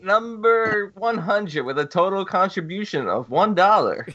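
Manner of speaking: lightly hammed-up announcer; a hint of a radio countdown host; mock countdown announcer. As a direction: announce it like a chart countdown, tongue in cheek.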